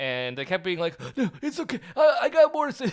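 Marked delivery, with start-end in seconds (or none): 1.2-2.9 very high, breathless words squeezed out between laughs. Retelling what the spoiler witch kept saying: imitating breathless laughing speech. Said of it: "breathless laughing".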